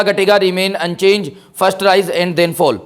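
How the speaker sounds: very slow listing of options; slow option reading. Shown as a demonstration. Teacher slowly reads out the answer choices. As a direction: spell out each choice.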